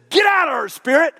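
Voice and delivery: high, loud command to a spirit; a forceful exorcist's order; commanding rebuke. Acted. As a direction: cast the spirit out with sharp authority. Paul casts out the spirit.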